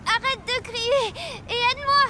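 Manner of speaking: desperate plea. Acted. A girl calls out desperately for help. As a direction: cry for help. Pleading, loud.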